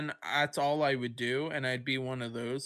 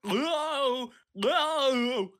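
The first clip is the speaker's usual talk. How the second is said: much higher cartoon goof voice, louder; Goofy impression; 9 semitones higher, 4 dB louder than usual. Friend voices Goofy for the cat, then goofy hyuck sounds. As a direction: play a dopey cartoon dog. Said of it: "That Goofy?".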